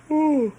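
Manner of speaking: loud high yawn, caught off guard; yawn, then apologise; sudden sleepy yawn. Real, not acted. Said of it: "excuse me".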